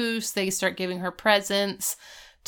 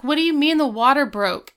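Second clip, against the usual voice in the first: higher, louder retold outburst; imitating a stunned, raised-voice question; mock alarmed disbelief; 6 semitones higher, 5 dB louder than usual. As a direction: blurt it like a baffled expectant dad. Retold panicked father on phone.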